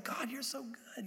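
soft, slowed praise to God; heartfelt praise. Acted. Believer praising God over morning reading, soft awe. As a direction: say it softly and slowly, in awe.

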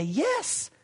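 a touch of a self-satisfied braggart; mock bragging. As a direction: imitate a smug man boasting of his good deeds. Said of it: "this guy could brag and say".

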